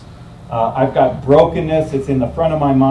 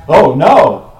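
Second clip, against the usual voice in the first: sudden loud alarmed oh no; a pilot's panicked yelp over the intercom; startled cry; 10 dB louder than usual. Retold or imitated. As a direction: blurt it out in alarm. Captain's startled cry in joke.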